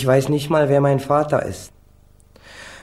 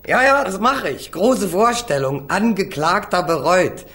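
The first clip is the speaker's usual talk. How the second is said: höher, spöttisch ausgerufen; mocking; 5 semitones higher than usual. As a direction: macht sich lustig über die Reue, höher gesetzt. Verhöhnt die geforderte Reue. (Angeklagter verspottet den Rat seines Anwalts, höhnisch)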